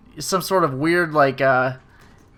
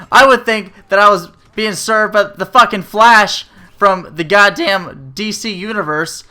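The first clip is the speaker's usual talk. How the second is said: loud, higher mock-amazed compliments; sarcastic praise; 3 semitones higher, 5 dB louder than usual. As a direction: gush with biting sarcasm. Sarcastic praise for slow service.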